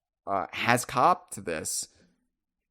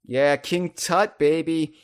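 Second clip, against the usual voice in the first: excited; 5 semitones higher, 5 dB louder than usual. Retold or imitated.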